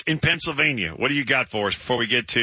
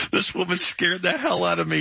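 higher-pitched quote of the punchline; amused retelling; 7 semitones higher than usual. Retold or imitated. Host quoting doorman's story to co-host, amused retelling. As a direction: retell it, tickled and incredulous.

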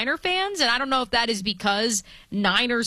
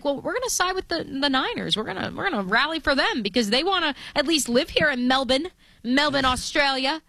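put-on Australian accent; 4 semitones higher than usual. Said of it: "did you just give us your Australian accent".

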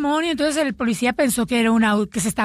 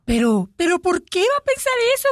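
whiny woman voice; 7 semitones higher than usual. Acted. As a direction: play the innocent wife, pitch way up. Wife protests, retold story.

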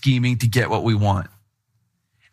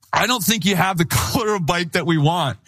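higher, half-laughing cover excuse; stalling the gang seller with a laughing excuse; nervous excuse; 4 semitones higher than usual. Retold or imitated.

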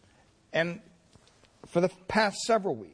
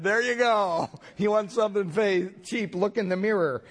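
sassy retort; 6 semitones higher than usual. Retold or imitated. Clerk retorts with mirror.

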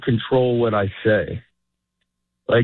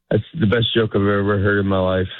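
deadpan praise; 4 semitones lower than usual. Retold or imitated. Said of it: "It sounds like I hate you".

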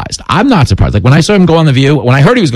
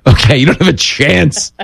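playful indignant challenge, climbing much higher; mock confrontation; 6 semitones higher than usual. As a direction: rise higher and higher, pretending to take offence. Mock telling-off of a sniffer dog.

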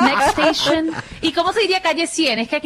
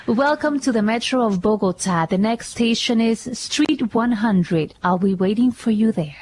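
slow, measured station announcement in English; metro announcer in English; 3 semitones lower, much slower than usual. Shown as a demonstration. Auditioning for the Bogotá metro, a slow announcer read. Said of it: "lo traduje por Google Translate".

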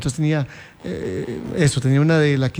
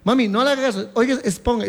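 pleading denial; 4 semitones higher than usual. Retold or imitated. Kid denying to mom.

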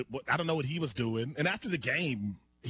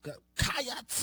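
bad Kentucky accent attempt; 8 semitones higher than usual. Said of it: "You're adding a syllable".

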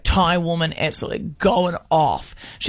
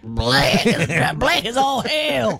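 American accent; 3 semitones higher, much slower than usual. Shown as a demonstration. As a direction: lean into a Southern American twang. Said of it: "that accent saying".

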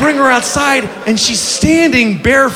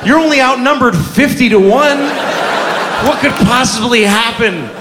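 sarcastic encouragement. Retold or imitated. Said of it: "I'm like".

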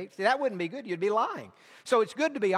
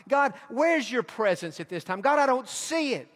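higher, pleading questions to God; doubting believer's plea; 5 semitones higher than usual. Retold or imitated. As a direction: cry out to God, half lost. Voicing a believer's doubting prayer.

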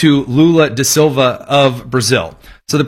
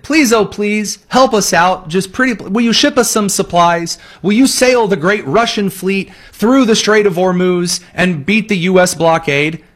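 higher, whiny mocking plea from the Iranian ministry; mock desperate plea; 5 semitones higher than usual. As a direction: overplay a begging envoy. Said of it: "went up to Moscow and said".

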